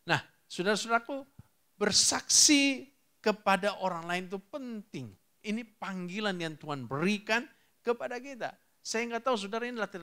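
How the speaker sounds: preacher's rising exhortation; emphatic preaching. Real, not acted. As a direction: press the point home to the congregation. Preaches with raised voice.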